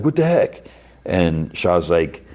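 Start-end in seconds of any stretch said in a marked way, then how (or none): 0.0-0.6 high, surprised yelp; a mock shocked squawk, pitched high; retold startled outburst. Splashed patron yelping at Shaw, mock shocked. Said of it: "And the guy's like".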